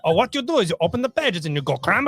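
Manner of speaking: high, loud, laughing cartoon voice; goofy excitement. Host explaining how to cram spiders in, loud and goofy. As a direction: ham up the cramming with a big high voice. Silly cramming demo, laughing.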